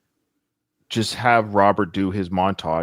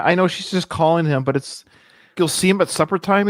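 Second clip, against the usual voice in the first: usual speaking voice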